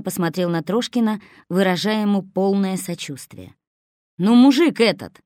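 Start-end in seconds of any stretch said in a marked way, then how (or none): 4.2-5.2 louder, higher exasperated yell. A narrator's reading. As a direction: lose patience and shout. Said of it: "заорал уже Славин". (теряя терпение, громко кричит)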